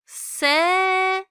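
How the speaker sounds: sharp S, said high and loud. Shown as a demonstration. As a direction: hit the S keen and hard. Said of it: "S harfimiz keskin olarak telaffuz edilir".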